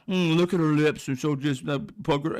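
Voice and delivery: a hint of a leering old man, savouring the lips; mock lecherous murmur, mostly his own voice; lightly voiced leering old man. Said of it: "He's talking about her".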